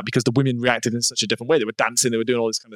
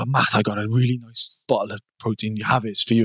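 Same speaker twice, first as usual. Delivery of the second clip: a hint of a Welsh lilt while quoting the stepdad; Welsh accent; 2 semitones lower than usual. Host quoting his stepdad's offer in a mild Welsh accent. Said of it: "That's the only accent you can do, the Welsh accent".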